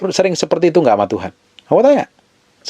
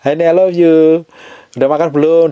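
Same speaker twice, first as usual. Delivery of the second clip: acted loving call; 4 semitones higher, 4 dB louder than usual. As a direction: play a husband checking in lovingly by phone. Imagined husband's loving midday call. (telepon mesra suami, dibuat-buat)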